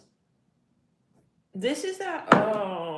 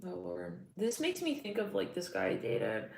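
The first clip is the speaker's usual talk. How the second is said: usual speaking voice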